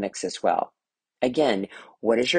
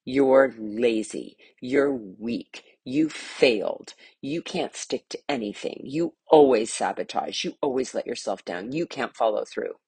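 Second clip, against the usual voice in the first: harsh. Acted. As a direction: scold like a cruel inner critic. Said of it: "I know I sounded really harsh".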